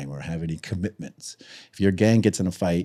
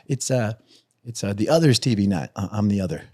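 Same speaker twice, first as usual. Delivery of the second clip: mock-polite, higher voice, lightly done; Mister Nice Guy; 4 semitones higher than usual. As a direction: play it sugary-sweet and harmless. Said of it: "Mister Nice Guy over here".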